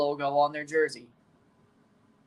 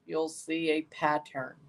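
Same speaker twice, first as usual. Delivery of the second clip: quiet; 8 dB quieter, slower than usual. Shown as a demonstration. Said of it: "repeating the line for effect".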